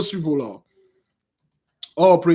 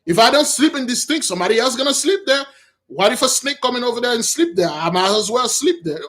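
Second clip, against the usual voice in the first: a lightly voiced, higher, puzzled raccoon; slightly raised voice of a bewildered raccoon; confused raccoon; 4 semitones higher than usual. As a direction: voice the raccoon, innocent and baffled. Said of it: "Raccoon was".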